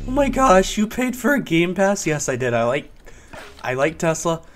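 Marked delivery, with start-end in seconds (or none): 0.1-2.0 mocking quote. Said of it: "People are like".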